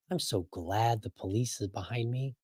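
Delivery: soft, mock sigh of relief; relieved. Comedian's driver on seeing police behind him, mock relieved. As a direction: say it softly, as if hugely relieved. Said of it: "had a sigh of relief".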